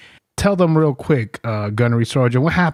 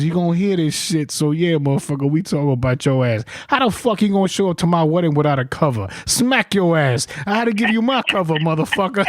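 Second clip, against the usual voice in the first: retold rant; 4 semitones higher, faster than usual. Gallegos quoted ranting at wedding.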